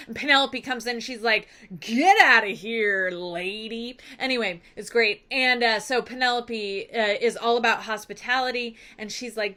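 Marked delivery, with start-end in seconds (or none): 1.8-4.0 hammed-up order to clear out; mock dismissal. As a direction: shoo someone off theatrically, stretching the first words. Penelope throws out rude servant.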